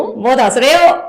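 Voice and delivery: playful attempt at Bhopali accent. Shown as a demonstration. Guest tries the host's sentence in Bhopali accent. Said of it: "इसको क्या बोलेंगे भोपाली में".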